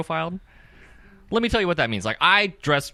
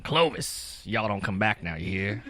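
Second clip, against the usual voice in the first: Southern hick; 6 semitones lower, 6 dB quieter, slower than usual. Acted. Mocks Clovis as Bible Belt town.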